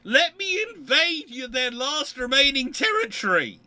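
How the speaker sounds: loud, high, gleeful demand; eager. Real, not acted. Eyeing the last territory, cries out gleefully. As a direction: pounce on it with greedy glee.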